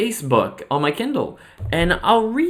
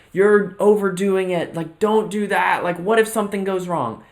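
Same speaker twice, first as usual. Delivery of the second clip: mock naysayer yelling; 5 semitones higher than usual. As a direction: drag it out like a fretting relative. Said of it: "everybody else in your life starts screaming at you".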